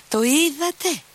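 a very high shriek on "Το είδατε. A narrator's reading. Screech it, beside himself. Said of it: "τσίριξε χλωμός και εκτός εαυτού".

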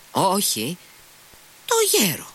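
high-pitched call without much volume; shouting as if to the deaf. A narrator's reading. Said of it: "σαν να φώναζε σε κανέναν κουφό".

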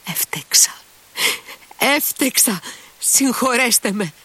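put-on high drunken plea for forgiveness; drunk apology. A narrator's reading. Drunk Grushenka bows to everyone, high and slurred.

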